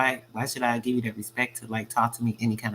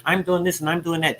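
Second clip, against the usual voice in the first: higher, showy braggart voice; pitched-up boastful imitation; mock bragging; 7 semitones higher than usual. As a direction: imitate a smug show-off. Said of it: "Certain ones will get up there".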